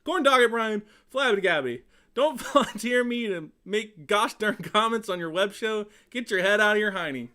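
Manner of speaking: a light take on an exasperated quarterback; Phillip Rivers impression. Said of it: "Tom is way better at it than I am".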